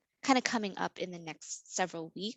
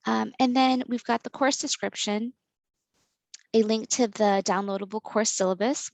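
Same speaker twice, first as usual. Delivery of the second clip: raised volume, explaining clearly; speaking louder; 7 dB louder than usual. Real, not acted. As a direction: project to the listeners as you present. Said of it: "I'll try to speak a little bit louder".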